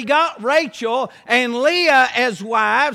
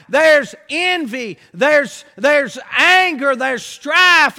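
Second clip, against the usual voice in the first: building shout; 2 semitones higher, 4 dB louder, slower than usual. Real, not acted. Preacher building on the sin.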